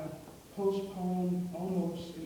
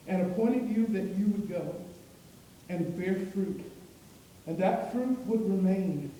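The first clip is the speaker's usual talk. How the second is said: scripture reading. Acted. Preacher reads Jesus' words to the congregation.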